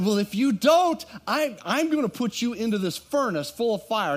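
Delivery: angry king's threat. Retold or imitated. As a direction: threaten them with the furnace. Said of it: "And he said".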